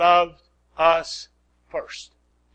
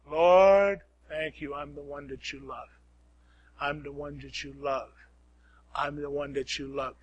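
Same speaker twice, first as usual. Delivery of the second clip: low, soft repeated confession; soft prayer; 5 semitones lower, 9 dB quieter than usual. Shown as a demonstration. Preacher demonstrating the prayer to the congregation, soft and low. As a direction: murmur it to God like a secret. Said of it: "I want you to say".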